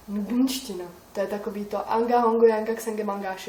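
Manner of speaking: každou slabiku protkat hláskou g, ngunština; hravě drmolit ngunštinu s g v každé slabice; g-language gibberish. Shown as a demonstration. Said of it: "Taký to, jak mezi každou slabiku přidá ten g". (hatmatilka s g mezi slabikami)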